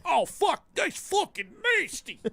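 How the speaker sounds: the two guys shrieking in hammed-up horror, very high; disgusted shriek. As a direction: squeal like you've been shot. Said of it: "They went".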